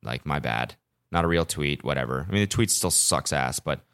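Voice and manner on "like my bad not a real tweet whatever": offhand apology. Retold or imitated. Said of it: "I said".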